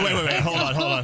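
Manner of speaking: high, amazed wait wait; surprised. Real, not acted. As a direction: stop them in disbelief. Stunned by Costco account.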